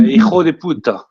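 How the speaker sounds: hijo de puta with Spanish jota and tapped r; Spanish pronunciation. Shown as a demonstration. Player compares the insult in Spanish, Spanish sounds. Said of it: "In Spanish".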